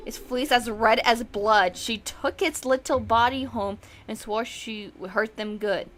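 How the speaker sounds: ominous nursery-rhyme voice; creepy poem reading. Acted. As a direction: recite it like a dark bedtime rhyme. Reads the creepy poem aloud.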